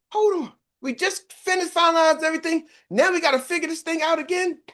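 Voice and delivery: high-pitched exasperated protest; imitated fired-up coworker. Coworker learning the finished flyers must change, mock exasperation. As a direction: mimic her getting worked up over redone plans. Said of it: "now she's fired up".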